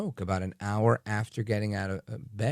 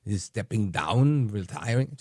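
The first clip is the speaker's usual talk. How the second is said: put-on a half-hearted stab at a German accent; lightly done Schwab voice, sounds more like Arnold; Klaus Schwab impression. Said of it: "to do my best Klaus Schwab impression".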